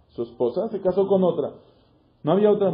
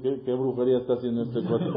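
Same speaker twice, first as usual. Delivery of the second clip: laughing quote; 6 semitones lower, 6 dB quieter than usual. Acted. Teacher laughs at Akiva's odd acts.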